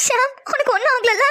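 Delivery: choked up with relief, voice catching; tearful relief. Acted. To Sham after days of fear, tearful. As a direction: ask through tears, relieved he is alive.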